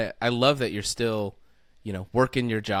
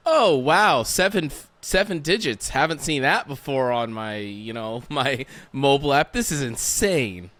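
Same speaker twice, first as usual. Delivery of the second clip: loud, high mock amazement at seven digits; amazed at the bank app; 4 semitones higher, 5 dB louder than usual. Interviewer imagining the guest seeing his balance, loud and amazed. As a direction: gasp it out like you can't believe the balance, with a laugh inside. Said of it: "you're like".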